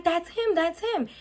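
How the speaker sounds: retold panicked cry. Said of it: "and I'm yelling".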